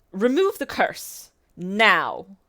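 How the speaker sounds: slow, imperious royal command; princess voice. Acted. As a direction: order it like a haughty princess. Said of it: "in your best princess voice".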